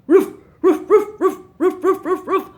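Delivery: high, loud playful puppy barks; puppy barking. Acted. Puppy Falcon barking hello to the children, high and loud. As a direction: yap like an excited little puppy. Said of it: "Now, Falcon, we're going to start reading".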